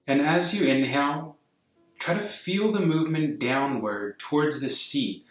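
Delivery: calm, unhurried meditation guidance; guided meditation. Real, not acted. Yoga teacher guiding a class to soften and breathe, calm meditation voice. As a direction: ease them gently into stillness, phrase by phrase.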